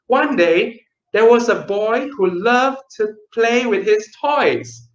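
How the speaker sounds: bright, animated story reading; lively storytelling. Shown as a demonstration. Teacher shows the right, lively way to read to parents. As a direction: read it with energy and fun. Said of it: "use all of what you have learned".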